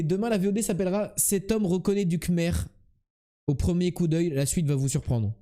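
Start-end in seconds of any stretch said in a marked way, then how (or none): 1.2-5.3 clickbait video narrator. Shown as a demonstration. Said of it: "Je vais l'appeler comme ça".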